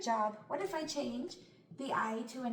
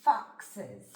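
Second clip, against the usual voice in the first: "Foxes" drawn out slowly, sound by sound; 6 semitones lower, 4 dB louder than usual. Shown as a demonstration. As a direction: take "Foxes" apart slowly. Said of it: "Try it yourself first".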